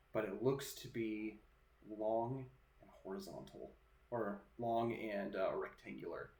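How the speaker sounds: measured narration with pauses between phrases; game master's scene setting. Acted. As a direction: set an eerie scene, unhurried and hushed.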